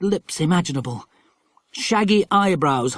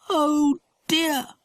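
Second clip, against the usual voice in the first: much higher, sinking dismay; deflated disappointment; dismayed girl; 12 semitones higher than usual. A narrator's reading. Dinah finding the plank gone, dismayed.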